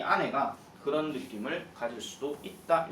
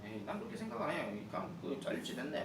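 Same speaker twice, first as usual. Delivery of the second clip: 빈정대는 말투; 3 semitones lower, 9 dB quieter than usual. Acted. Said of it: "뭐 이런 식으로 얘기하는 거예요".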